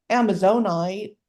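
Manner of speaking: stretched Southern "Amazonite" with nasal vowels; Southern drawl. Shown as a demonstration. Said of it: "I'm so Southern, I always wanna be like".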